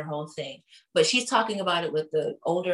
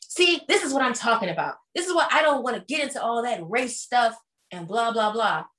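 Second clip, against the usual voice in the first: mock exasperated Southern woman; 4 semitones higher than usual. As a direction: play her as lightly put-upon. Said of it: "Sutton is like".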